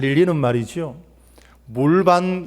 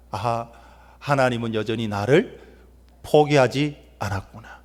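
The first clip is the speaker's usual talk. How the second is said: softer, halting musing as Samson; tearful realization; 4 semitones lower, 4 dB quieter than usual. Acted. Samson alone, touching his shorn hair, quietly moved. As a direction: let the realization sink in quietly. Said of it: "삼손은 울었을 거예요".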